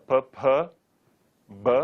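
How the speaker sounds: popped P, p then b; P, p with a puff of air, then b; labial p and b. Shown as a demonstration. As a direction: pop the lips on each sound. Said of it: "The aspirate is p".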